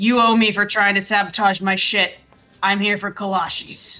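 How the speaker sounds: menacing, intimidating, threatening tone. Playing a character slamming open a rival's shop door: intimidating threat. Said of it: "slam open the door".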